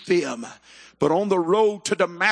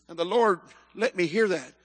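ordinary talk

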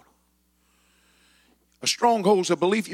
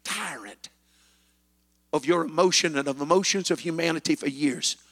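enemy boasting; 4 semitones lower than usual. Retold or imitated. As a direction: let the enemy gloat low. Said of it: "the enemy says".

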